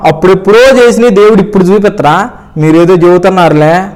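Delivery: scoffing, half-amused disbelief, lightly retold; a mild sneer at the idea; mocking retort. Brushing off the pastor's words with light mockery. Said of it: "అని హేళనగా పోయినా".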